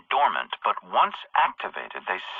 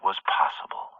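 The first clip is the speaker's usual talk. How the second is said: whispered close of the thought; conspiratorial whisper; 3 semitones lower than usual. Acted. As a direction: trail off into a whisper. Villain explains a surprise attack.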